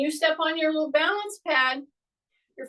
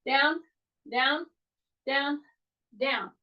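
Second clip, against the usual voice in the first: counted cue; slower than usual. Shown as a demonstration. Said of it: "take four counts coming down".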